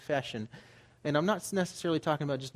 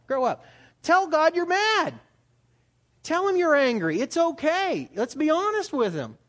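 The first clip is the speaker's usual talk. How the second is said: fervent preaching; 12 semitones higher, 7 dB louder than usual. Real, not acted. Preacher urging his congregation to tell God, loud and fervent. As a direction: push it out like a rallying call to the flock.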